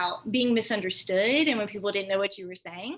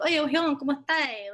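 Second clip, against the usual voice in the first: casual greeting; 4 semitones higher, 5 dB louder than usual. Retold or imitated. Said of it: "depends on your tone of voice".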